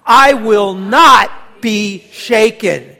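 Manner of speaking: loud, slow, every word planted; with conviction. Shown as a demonstration. Pastor urging the church to declare it with loud conviction. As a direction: declare it like nothing can move you. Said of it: "Say it with conviction".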